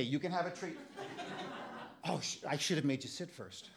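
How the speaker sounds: soft, hushed voice to the dogs; soft coaxing. Retold or imitated. Owner quietly coaxing his two dogs with treats, soft and gentle. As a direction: murmur gently like training a puppy.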